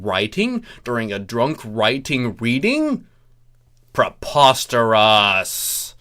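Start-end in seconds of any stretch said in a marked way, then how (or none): 3.9-5.9 indignant. Real, not acted. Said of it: "This is very uncouth".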